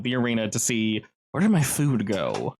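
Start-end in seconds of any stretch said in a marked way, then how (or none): 1.3-2.5 slow low creature voice; monster voice. Acted. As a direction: growl it like a confused hungry beast.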